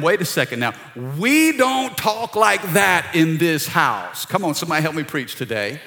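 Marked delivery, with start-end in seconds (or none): 0.0-4.3 firm correction. Retold or imitated. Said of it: "I had to tell him".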